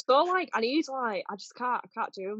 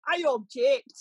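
mock objection; 4 dB louder than usual. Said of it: "where he objects".

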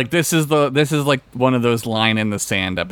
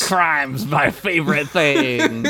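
laughing; 3 semitones higher, slower than usual. Retold or imitated. Mocking villain line, laughing.

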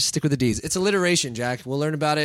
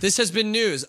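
news anchor sign-off; 6 semitones higher than usual. Shown as a demonstration. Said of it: "Can you tell I'm a professional?".

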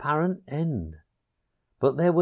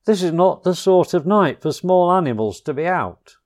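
paternal; 6 semitones higher, 6 dB louder than usual. A narrator's reading. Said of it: "he said paternally".

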